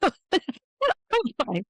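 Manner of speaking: laughing through the words. Real, not acted. Patient retelling her answer to the doctor, laughing. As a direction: break into a laugh while speaking.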